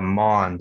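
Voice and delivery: "Mon" as one syllable, like Jamaican "mon"; correct name pronunciation. Shown as a demonstration. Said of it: "so think Jamaican".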